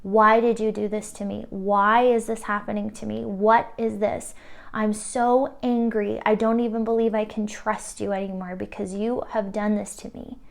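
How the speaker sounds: acted outcry of hurt anger, stressed and loud-edged; voicing someone's wounded, accusing protest; anguished crying out. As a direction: plead in anger with the universe. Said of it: "they're crying out to the universe".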